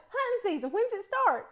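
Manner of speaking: high-pitched East Tennessee country twang; country slip. Retold or imitated. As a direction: repeat it in a broad East Tennessee accent. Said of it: "just like that".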